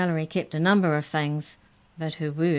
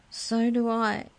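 high, wistful, doubtful echo; worrying doubt; 6 semitones higher, slower than usual. A narrator's reading. Mouse doubting a happy ending, worrying doubt. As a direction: repeat it as if not quite believing it. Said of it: "something in the mouse's tone that worried".

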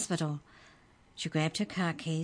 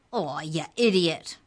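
squeaky shout; 6 dB louder than usual. Acted. The dropped book elf shouts at Trent, squeaky. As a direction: yell at the clumsy boy. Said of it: "it shouted".

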